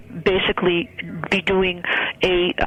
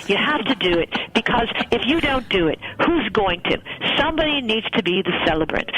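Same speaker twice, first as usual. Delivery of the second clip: put-on lilting, often higher Australian accent; Kathy's Australian accent; 3 semitones higher than usual. Australian mentor urging a nervous celebrant to go up, in an Australian accent. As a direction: urge a friend on in an imitated Australian accent. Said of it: "I'm gonna do her Australian accent".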